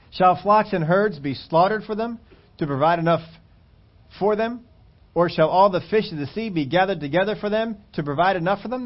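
Moses questioning in disbelief; doubting Moses. Acted. Moses doubting God's promise, disbelieving. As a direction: ask it like it's impossible. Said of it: "Moses is talking in this way".

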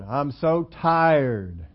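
very slow, drawn-out tired complaint; weary sigh. Acted. Preacher voicing a worn-out believer at the end of strength, weary and drawn out. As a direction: let the words sag like you're worn out.

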